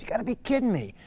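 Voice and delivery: high-pitched, incredulous mock outrage; ballistic outburst. Preacher voicing the irate king refusing the prophet's order, going ballistic. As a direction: blow up in disbelief, pitch jumping up. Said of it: "he just goes ballistic".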